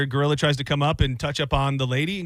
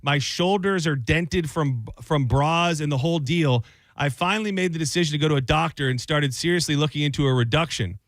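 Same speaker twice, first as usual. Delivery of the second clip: expressive read of a fed-up listener's letter; lightly dramatized advice-column letter. Acted. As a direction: voice the writer's complaint with mild exasperation.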